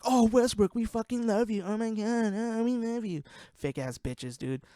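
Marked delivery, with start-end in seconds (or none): 0.0-3.2 high-pitched fawning fan imitation; mock gushing. Podcaster mimicking fans after KD leaves, mock gushing. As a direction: gush sarcastically, pitched way up.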